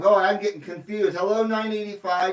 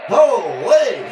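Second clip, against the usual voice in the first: laughing exclamation; 3 semitones higher, 6 dB louder than usual. Real, not acted. Laughing at his own mix-up.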